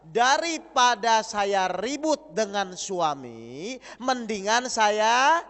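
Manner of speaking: slow, stretched wife's excuse trailing off; drawn-out quote. Shown as a demonstration. Wife explaining her patience, slow and trailing. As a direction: drag the excuse out and leave it hanging. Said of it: "Ayo saya ulang".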